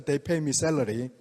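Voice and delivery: usual speaking voice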